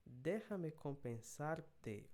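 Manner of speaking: "Déjame compensarte" read at half speed, syllable by syllable; slow dictation. Shown as a demonstration. Teacher modelling the phrase, slow dictation. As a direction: spell it out slowly for learners. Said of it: "teacher reading slowly".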